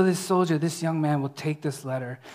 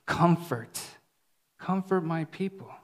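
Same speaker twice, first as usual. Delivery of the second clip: softer, gentle reading of God's words; tender comforting; 5 dB quieter than usual. Acted. Preacher voicing God comforting his people, softly tender. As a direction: breathe it out like consoling a child. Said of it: "he's saying to his people".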